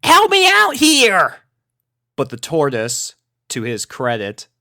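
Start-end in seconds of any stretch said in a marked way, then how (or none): 0.0-1.4 very high, loud desperate call; pleading cry. A narrator's reading. Rainbow begging her tortoise for help, desperate cry. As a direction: call for rescue. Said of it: "she pleaded".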